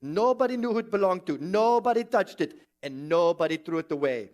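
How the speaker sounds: rough, lightly put-on Indian accent; bad attempt at an Indian accent. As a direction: narrate like a legend in a mock Indian accent. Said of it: "in my worst Indian accent".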